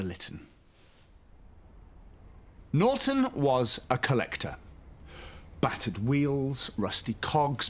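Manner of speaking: gentle, lively storybook reading; bedtime story narration. A narrator's reading. Host reading a bedtime story to young children, soothing storyteller. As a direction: read it like a children's picture book at bedtime.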